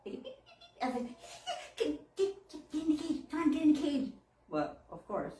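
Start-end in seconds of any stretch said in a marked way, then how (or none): 0.1-0.8 high squeaky beeps like a little bird; bird chirp imitation. Imitating the escaped bird chirping outside. 1.8-4.1 laughing coax. Retold or imitated. Coaxing the bird into cage.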